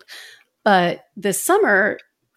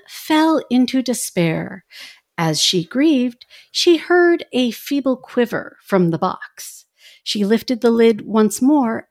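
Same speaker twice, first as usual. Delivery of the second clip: soothing bedtime story. Retold or imitated. Host reading the Pandora myth like the album's narrator, soothing bedtime story voice. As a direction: mimic a gentle bedtime narrator, lingering on phrases. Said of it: "gonna try to mimic the voice".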